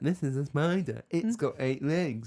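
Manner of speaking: put-on slow, patronizing American kids' presenter voice. Imitating an RSPCA visitor showing kids a spider: imitating a condescending American accent. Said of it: "real condescending".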